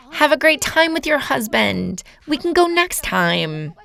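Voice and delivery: calm, unhurried send-off, slowing at the end. Shown as a demonstration. Telling a partner to enjoy time with her husband, calmly. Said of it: "I would say that calmly".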